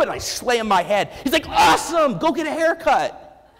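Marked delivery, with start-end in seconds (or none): 1.5-3.5 high, loud, sing-song cheer; mock the breezy upbeat therapist; chipper therapist voice. Therapist telling Ethan after the head slam, high chirpy.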